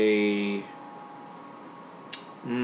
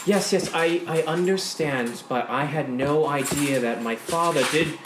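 higher, flustered noblewoman voice; raised pleading young woman; Gwendolyn; 5 semitones higher than usual. Acted. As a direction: play her defensive and apologetic. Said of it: "you do hear Gwendolyn saying".

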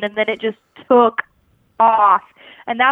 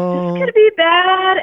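retold panic; 8 semitones higher, 4 dB louder than usual. Panicking on the fishing line.

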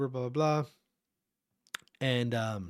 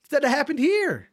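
higher, a bit louder mock outburst of frustration; retold anger; 9 semitones higher, 3 dB louder than usual. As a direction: replay the fury, voice climbing higher. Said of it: "And I got mad again".

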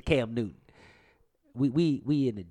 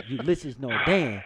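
mumbled name; 2 semitones lower, 3 dB louder, slower than usual. Retold or imitated. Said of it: "He said".

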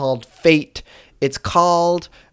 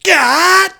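much higher, loud battle yell; higher, loud heroic Link yell on request; Link impression; 7 dB louder than usual. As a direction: yell it like a hero swinging a sword. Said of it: "What's your Link impression".

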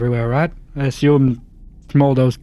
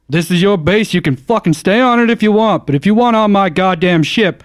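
angry; 6 semitones higher, 4 dB louder than usual. Acted. Captain confronting crew, shouting.

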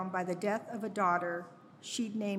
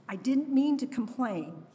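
brokenhearted mantra; 2 semitones higher than usual. Retold or imitated. Mother apologizing to her lost baby, brokenhearted. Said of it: "My brokenhearted mantra".

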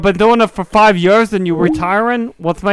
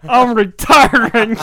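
mimicking the old man; 5 semitones higher than usual. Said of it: "mimicking the retiring teacher".

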